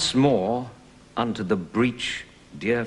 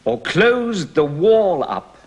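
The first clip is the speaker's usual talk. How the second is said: declaimed, rising to a louder climax on wall; verse speaking; 3 dB louder than usual. Shown as a demonstration. Actor repeating the breach speech for the lesson, declaimed. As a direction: give the rallying cry full stage voice. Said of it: "Let's take the speech now".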